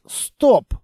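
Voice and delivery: high, excited realisation; sudden recognition. A narrator's reading. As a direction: cut in as it dawns on you. Sudden recognition of the narrator's character.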